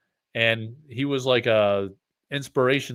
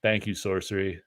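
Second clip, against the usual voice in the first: a lightly voiced cool sign-off, a bit softer; just hint at a laid-back artist's thanks; 3 semitones lower, 6 dB quieter than usual. Streamer mimics a second artist's cool sign-off, lightly. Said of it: "Brian Smith does this cool, like, thing".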